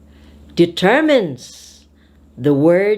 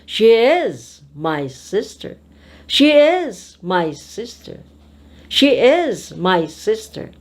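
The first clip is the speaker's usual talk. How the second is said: "is" stretched and raised, pause before "my sister"; stress on IS. Shown as a demonstration. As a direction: insist on the word is, affirming it as true. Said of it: "So how will you say it?".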